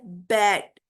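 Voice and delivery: बैट as one low beat; single syllable. Shown as a demonstration. Teacher repeating the one-sound example, बैट as a single beat. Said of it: "एक sound निकल रही है".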